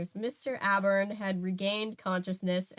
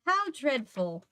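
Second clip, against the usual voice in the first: exclaimed; 5 semitones higher, slower than usual. Acted. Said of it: "she exclaimed".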